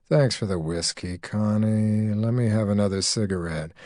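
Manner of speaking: a calm man, lightly voiced.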